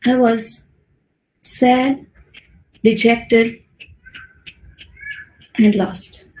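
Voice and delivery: subdued, with long pauses between words; demonstrated sadness, halting and downcast; sad, dejected. Shown as a demonstration. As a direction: let each word sink, dejected and lost. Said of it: "if I want to say I was sad".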